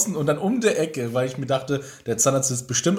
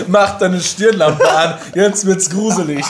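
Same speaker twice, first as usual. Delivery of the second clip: slow, loud, giggling mock horror; spooky tease through laughter; laughing spooky voice; 4 semitones higher, 5 dB louder, slower than usual.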